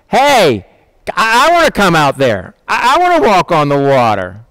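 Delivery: lightly acted impulsive shout; eager calling out. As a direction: call out keenly across the water. Peter calls out to Jesus.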